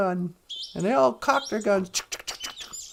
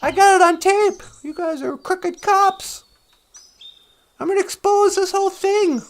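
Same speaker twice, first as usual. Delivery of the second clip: mildly acted defiant hero, pitch raised; a raised-pitch mock movie showdown; 6 semitones higher, 5 dB louder than usual. Cornered man to crooked cops, defiant. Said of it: "He's like".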